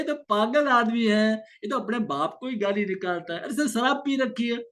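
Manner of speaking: amused, high inner voice brushing off an insult; calm inner voice. Retold or imitated. Calm mind dismissing a drunk's abuse, amused. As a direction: shrug it off lightly, half laughing.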